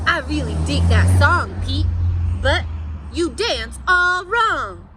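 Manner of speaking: a loud grumpy know-it-all toad. Acted. Grumpy Toad criticizes Pete.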